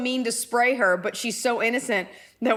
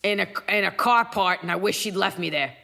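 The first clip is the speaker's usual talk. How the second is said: lightly voiced grumbling cat; a hint of a streetwise cat; Gracie. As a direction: play a put-upon pet complaining about its owner. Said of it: "What voice would you give Emily's cat".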